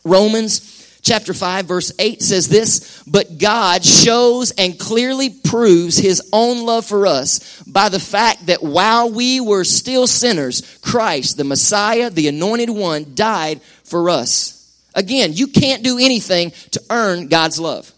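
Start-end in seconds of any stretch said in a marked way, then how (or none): 3.1-14.5 slow, solemn scripture read. Acted. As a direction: read the verse slowly and reverently. Reads scripture slowly.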